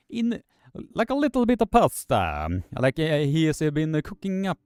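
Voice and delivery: mock Italian chef voice, joking about pasta and meatballs; bad Italian accent. Streamer jokes about an arm wrestler's wrist in a bad Italian accent. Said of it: "my worst attempt at the Italian accent".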